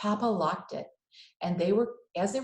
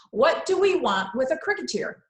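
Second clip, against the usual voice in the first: loud, much higher mocking mother; exasperated Mama; 7 semitones higher, 7 dB louder than usual. Mama scoffing at Mario's cricket knowledge, loud and high. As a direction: scoff at the boy's cricket facts.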